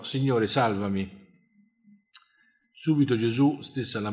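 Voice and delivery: steady, measured Gospel reading; scripture reading. A narrator's reading. Preacher reading Peter on the water to the congregation, measured scripture reading. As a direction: read the passage aloud in an even narrator's tone. Reads the Gospel passage aloud.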